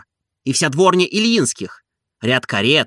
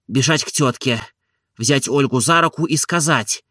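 plain reading voice

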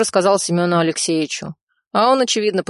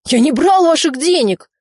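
much higher, louder yelled denial; shouted denial; 10 semitones higher, 6 dB louder than usual. A narrator's reading. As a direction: shout your innocence. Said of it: "выкрикнул он".

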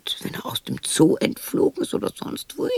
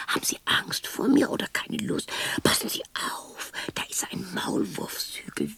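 hushed, softer caution; whispered warning; 5 dB quieter than usual. Acted. Woman warning the visitor about the molehill in a whisper.

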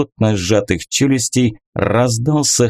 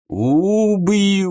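higher roaring threat; viking rage; 9 semitones higher than usual. A narrator's reading. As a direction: bellow it like a raging viking. Enraged jarl smashing furniture.

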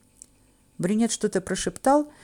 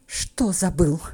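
hoarse growl; 3 semitones lower, much slower than usual. A narrator's reading. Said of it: "хрипло рычу я".

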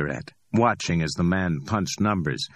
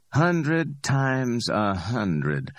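higher, amused street hustler voice; cocky Ordell; 6 semitones higher, much slower than usual. Acted. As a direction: play Ordell, high and pleased with himself. Ordell counts out money slowly.

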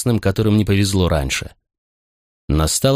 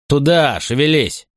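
barked order; 6 semitones higher, slower than usual. A narrator's reading. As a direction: bark at him to move. Legionary pushes condemned man.

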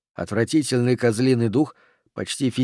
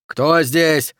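mildly raised challenge; shouting; 3 semitones higher, 4 dB louder than usual. Acted. Oxy challenges unseen figures below, shouting. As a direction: call out into the shaft. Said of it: "прокричал Окси".

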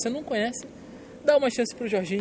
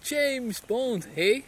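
put-on Bond line in a Canadian accent; slow Canadian-accented Bond intro; 3 semitones higher, much slower than usual. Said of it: "fazer o meu canadense". (sotaque canadense)

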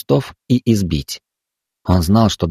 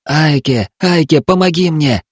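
wailing plea; 7 semitones higher than usual. A narrator's reading. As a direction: wail for help from the dark. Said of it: "запричитали из темноты".

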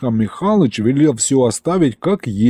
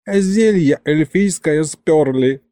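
slow, high whimpering wail; mock-tearful lament; sobbing; 5 semitones higher, slower than usual. A narrator's reading. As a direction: wail it like a robbed old man. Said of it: "всхлипнул Михалыч".

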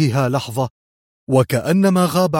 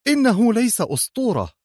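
much higher, sharp retort; sharp cry; 10 semitones higher than usual. A narrator's reading. Aide snapping that the enemy is no legend, sharp retort. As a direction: snap back at him. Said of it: "هتفت في حدة".

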